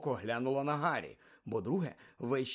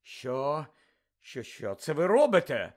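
stammering, louder astonishment; astonished; 5 dB louder, slower than usual. Acted. McGonagall seeing the ferret thrown, astonished stammer. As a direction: sputter in disbelief. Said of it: "здивувалася професорка МакГонагал".

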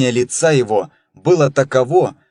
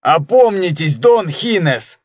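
urgent high plea; crying out; 4 semitones higher than usual. Acted. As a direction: cry out in alarm. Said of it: "вскричал Дон Хосе".

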